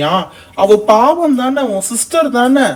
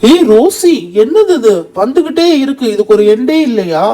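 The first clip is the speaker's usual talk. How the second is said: shocked outburst. Acted. Boy shouts to Rosie at the endless ice cream, surprised.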